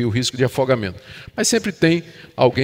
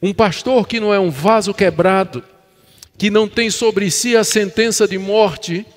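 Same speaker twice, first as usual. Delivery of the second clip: emphatic, insistent sermon delivery; preaching; 6 semitones higher, 3 dB louder than usual. Real, not acted. Pastor on shepherds dying for the sheep, emphatic preaching. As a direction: drive the conclusion home with strong stresses.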